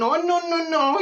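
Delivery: laughing no. Acted. Laughing denial of plain wedding.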